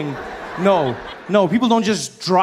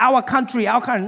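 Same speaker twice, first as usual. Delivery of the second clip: "our country" in a mock Asian accent; Asian car dealer; 6 semitones higher than usual. Dealer boasting to customer, mock Asian accent. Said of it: "there's this Asian gentleman helping me".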